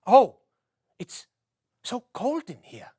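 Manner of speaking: hushed, hammed-up freezing voice; mock cold shiver. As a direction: act out being cold in snow. Foley man acts out cold snow.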